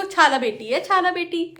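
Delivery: mimicking a toddler's lisp; toddler imitation. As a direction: say it like the little girl Aaru. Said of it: "आरू कहती है इसको".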